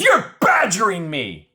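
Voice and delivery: high, slow whiny accusation; whiny mock. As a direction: play her as put-upon. Mocking her complaint.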